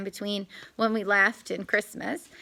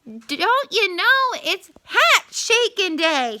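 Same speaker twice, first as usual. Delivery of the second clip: strained bluff; 8 semitones higher, 6 dB louder, slower than usual. A narrator's reading. Anansi bluffs in pain.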